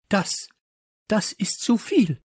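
high, halting, affronted gasp; gasping outrage. Acted. Teacher at the end of her patience, high gasp. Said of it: "keuchte sie".

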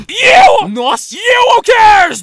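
high shouted hype intro; shouting. Acted. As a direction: yell it out, big and high.

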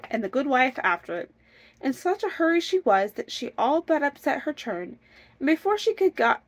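animated fairy-tale reading; story narration. A narrator's reading. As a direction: read on like an eager storyteller. Reads fairy tale aloud.

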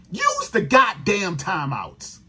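slow, shouted demand; slow angry shout. Real, not acted. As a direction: yell the order slowly at the coach. Furious rant at coach's clock management.

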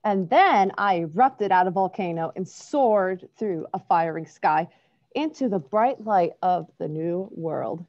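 gentle storybook narration; reading to children. A narrator's reading. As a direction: read it like bedtime story. Reads a picture book aloud.

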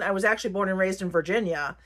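usual speaking voice

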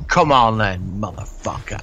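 Rambo taunt. Retold or imitated. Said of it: "he says".

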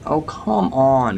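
slow, dragged-out complaint, come stretched long; weary disbelief, dragged out; drawn-out groan. Real, not acted. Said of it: "I'm just getting a bit annoyed".

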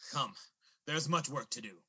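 low, grave summons; ominous. Acted. Old man leading Sandy and David away, ominous. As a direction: solemnly bid them follow.

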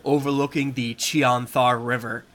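measured scene-setting narration; story narration. Acted. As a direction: read it like a game master's intro. Reads the adventure intro.

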